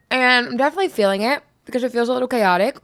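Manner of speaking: talking around ice in mouth. Real, not acted. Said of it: "I have a piece of ice in my mouth".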